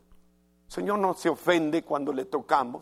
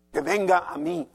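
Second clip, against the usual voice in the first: a proud, lightly raised demand; haughty demand; 2 semitones higher, 4 dB louder than usual. Retold or imitated. Preacher voicing a proud unforgiving heart, haughty demand. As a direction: insist that others come to you, mock arrogance. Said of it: "Qué mala actitud".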